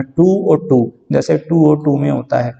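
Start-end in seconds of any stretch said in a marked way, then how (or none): 0.0-0.9 both "टू" said exactly alike with a long oo; identical-sounding homophones. Shown as a demonstration. Teacher shows students that homophones match, both "टू" pronounced identically as too. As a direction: say each "टू" in "टू और टू" with the same oo sound. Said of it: "लेकिन sound same है".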